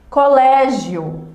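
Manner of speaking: "Colégio" said slowly, each syllable laid out so the final "gio" glide is heard; slow demo word. Shown as a demonstration. Teacher sounding out the example word for the class, slow and careful. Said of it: "representação de uma semivogal".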